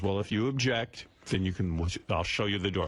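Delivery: lightly voiced low-pitched boss; hillbilly interviewer. Boss threatens job applicant who objects, lightly voiced hillbilly. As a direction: imitate a hillbilly interviewer, pitch dropped a little. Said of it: "looks like he just stepped out of hillbilly heaven".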